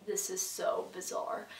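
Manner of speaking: hushed, unvoiced aside; 1 whispered aside. Whispering to the other girls at the odd office, hushed.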